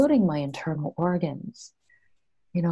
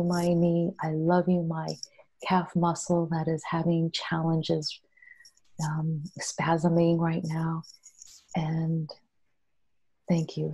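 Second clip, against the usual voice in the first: gentle healing prayer. Shown as a demonstration. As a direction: pray tenderly to your body, unhurried. Speaks to her own body.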